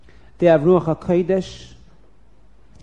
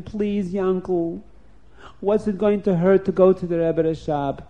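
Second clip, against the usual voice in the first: pleading; 2 semitones higher than usual. Acted. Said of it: "his wife begged him".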